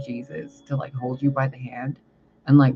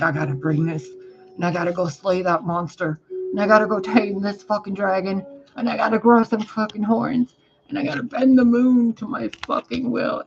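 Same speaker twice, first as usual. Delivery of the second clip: a hint of a macho man, climbing higher line by line; building macho boast; 5 semitones higher than usual. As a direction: puff up more with each "I gotta". Macho emperor listing his tasks.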